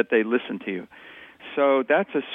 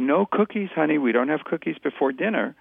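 put-on gently firm no to a toddler; parent refusing a child; 2 semitones higher than usual. Shown as a demonstration. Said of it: "rather than saying".

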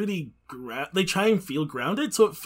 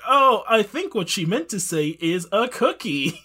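covering for her; 5 semitones higher, 4 dB louder than usual. Retold or imitated. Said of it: "Conan will be like".

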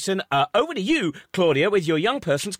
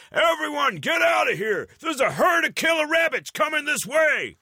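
shouted warning; 10 semitones higher than usual. Retold or imitated. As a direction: yell it like a panicked cop. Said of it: "the policeman suddenly goes".

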